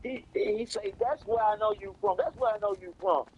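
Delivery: high, giggly imitation of the cellmate; laughing retelling. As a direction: tell it while cracking up.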